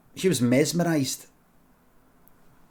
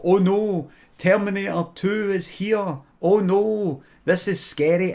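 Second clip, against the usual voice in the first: higher hammed-up panic; mock fright; 5 semitones higher, slower than usual. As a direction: fake alarm at a toy robot. Mocking scared Twitter viewers.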